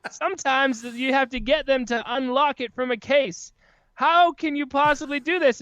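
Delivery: milk the impossible chore for laughs; hammed-up ad parody. Podcaster mocking a razor commercial, hammed-up despair.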